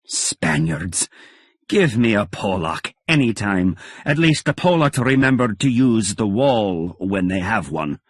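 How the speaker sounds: mild exasperated mentor shout; mock yell. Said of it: "McPherson was screaming again".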